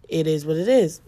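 "It is what it is" said flat and final, punching the last "is"; catchphrase delivery. Shown as a demonstration. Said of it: "my signature fa-, like, f-, catchphrase".

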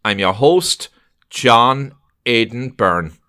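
slow, deliberate host announcement; podcast intro read, slowly spaced out; show introduction. Acted. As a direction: introduce the guest like a radio host, measured.

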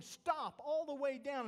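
a father hollering as he rushes down the aisle; hollering dad. Retold or imitated. Preacher builds hollering dad scene.

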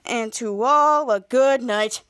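slow bedtime-story ending; storybook closing. Acted. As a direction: wind it up like a fairy tale.

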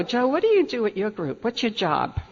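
a light touch of smugness, boasting to her husband; smug brag. Retold or imitated. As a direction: tease him a little, half-smug. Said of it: "with that very smug, arrogant attitude".

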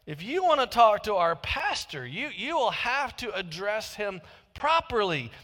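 mildly huffy secretary correcting a caller; lightly acted indignation, leaning on the key words; somewhat indignant. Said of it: "somewhat indignant, she said".

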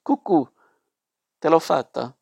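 mildly nasty gloat, called out; spiteful taunt. A narrator's reading. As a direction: crow over the trick, lightly spiteful. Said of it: "sentii da destra la voce di lei, cattiva, che gridava".

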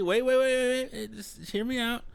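urgent. Real, not acted. Heading off objection.

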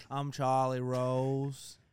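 very slow, drawn-out self-introduction; Charlie Rose. Acted. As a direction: stretch it out as a lightly voiced TV host. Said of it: "creative writing would be Charlie Rose".

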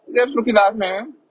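talking with a blocked nose. Real, not acted. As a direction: speak through a stuffy nose. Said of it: "dat mijn neus een beetje vast zit".

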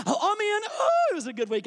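hammed-up burst of relief at being in; mock elated Christian. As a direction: swoop up loudly into exaggerated joy. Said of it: "You meet Christians like this".

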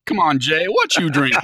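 high, loud teasing call-out; egging him on, pitched high. Acted. Egging Jay on to name his drink, high teasing call.

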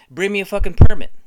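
a full hammed-up bellow; shouted demand. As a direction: scream the demand this time. Repeat, louder.

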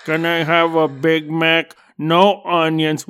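mumbled order. Retold or imitated. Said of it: "I don't say it like that".

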